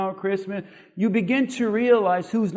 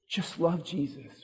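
mom's last words; 2 semitones lower, 10 dB quieter than usual. Retold or imitated. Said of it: "what she's gonna say".

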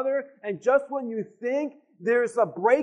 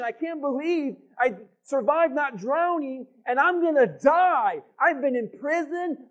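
despairing Paul. Retold or imitated. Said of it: "So he's thinking now".

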